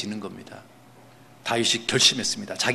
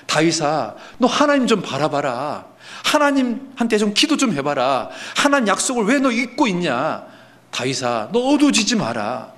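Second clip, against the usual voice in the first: preaching to himself; 4 semitones higher than usual. Acted. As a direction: scold your own heart, urging it to look to God. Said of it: "자기 스스로에게 하는 말인 겁니다".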